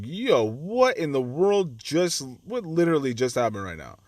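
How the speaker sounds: retold disbelief. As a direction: replay the moment you couldn't believe it. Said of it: "I was like".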